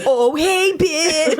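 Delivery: put-on whiny emo teen. Shown as a demonstration. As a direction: whine it through a laugh, goth teen. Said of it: "What is an emo voice?".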